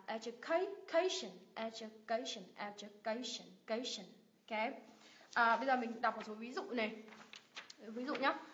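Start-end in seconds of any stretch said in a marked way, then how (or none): 0.0-4.0 "education" with CA stressed; drawn-out CA in "education", then light "shun"; stress before last syllable. Shown as a demonstration. Teacher demonstrating "education", stress just before the ending. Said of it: "Mình nhấn âm tiết ngay âm tiết trước đó".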